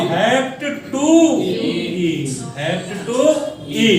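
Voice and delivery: slow हेप्ट टू ई, said part by part; slow dictation. Shown as a demonstration. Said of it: "double bond कितने number पे है?".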